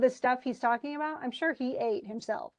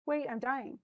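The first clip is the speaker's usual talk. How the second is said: higher, sing-song mock cheerfulness; mock chirpy cheer; 4 semitones higher than usual. Nora mockingly urges the dying doctor to smile, high chirpy mock cheer. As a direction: lightly parody the forced good cheer.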